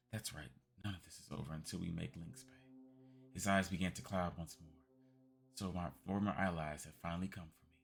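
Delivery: put-on a faint old voice stirring; weary old man. Old man muttering to his former allies, weary.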